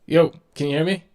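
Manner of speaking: loud but muffled, like through a wall; muffled and far away. Real, not acted. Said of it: "You sound muffled".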